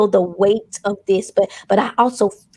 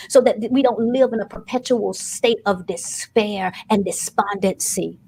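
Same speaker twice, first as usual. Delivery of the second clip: preaching prayer. Acted. Preacher praying over the congregation for healing, solemn and earnest. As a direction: pray over the congregation with weight.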